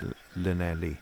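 Llanelli with plain English Ls; flattened English Llanelli without Welsh LL; anglicised pronunciation. Shown as a demonstration. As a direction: say Llanelli as "la-NELLY", no hiss. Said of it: "that's how they do it on the news".

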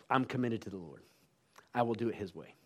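low, soft retold resolve; quiet surrender. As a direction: commit to it softly and humbly. Man's subdued surrender, retold.

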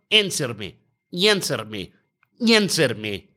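put-on lightly accented demand, repeated with pauses; ranting tennis player. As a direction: imitate a player demanding a reply. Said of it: "he sound like he's".

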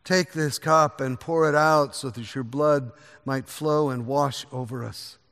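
prayer. Acted. Leads the communion prayer.

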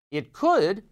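could hit high and loud; stress on could. Real, not acted. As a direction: punch the word could, then pause. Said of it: "and I emphasize could".

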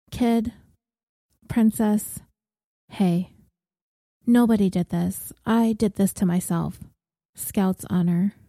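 gentle reassurance. Acted. Comforting crying housemate.

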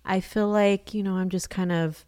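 frazzled mother letting it out; exasperated. Retold or imitated. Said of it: "like, exasperated".

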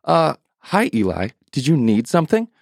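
put-on a high, timid little boy; young boy voice. Samuel waking Eli at night, high and unsure. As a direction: ask like a sleepy, unsure child.

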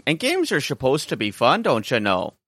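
a hint of a solemn hero reminding everyone; Stormrage persona. Co-host plays the character to teach the listeners, lightly voiced. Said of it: "My name's Storm Rage".

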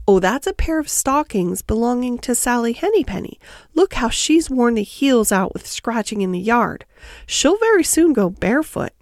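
lightly voiced chatty hedgehog washerwoman; fussing Tiggywinkle. Tiggywinkle tells Lucy whose stockings these are, mildly fussing washerwoman.

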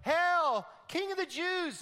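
loud, high mocking hail; mocking soldiers. Soldier mocking Jesus, loud high jeer. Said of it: "They go".

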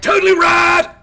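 high, loud surfer outburst; Surfer Dude. Acted. Sat nav piping up out of nowhere on the motorway, loud surfer dude. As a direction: blurt it like a nineties surfer. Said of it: "used to have a sat nav called Surfer Dude".

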